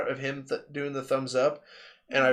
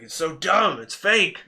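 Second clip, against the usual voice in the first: mock scoff; 6 semitones higher, 5 dB louder, slower than usual. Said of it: "He's like".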